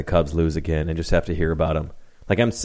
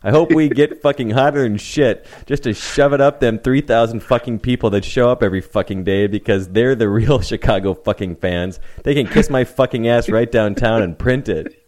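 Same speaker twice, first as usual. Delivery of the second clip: laughing through it. Real, not acted. Laughing while reading the rant.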